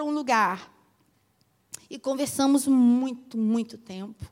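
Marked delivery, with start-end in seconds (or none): none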